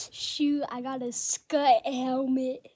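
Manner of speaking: excited reveal. Real, not acted. Loud reveal after whisper.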